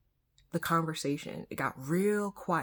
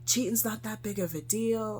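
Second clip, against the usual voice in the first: higher-pitched mock dismissive voice; put-on, pitched-up naysayer; imitated doubters; 7 semitones higher than usual. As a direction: mimic people brushing it off. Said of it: "some people who looked at me sideways".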